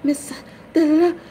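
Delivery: high, fast mock phone agent voice; high mock customer service voice; mimicking bank agent. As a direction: imitate the bank rep, chirpy and high. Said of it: "they're like".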